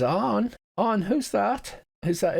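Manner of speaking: put-on high, slow frail old woman's voice; a blind old mother calling out for her son. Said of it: "a frail old woman's voice".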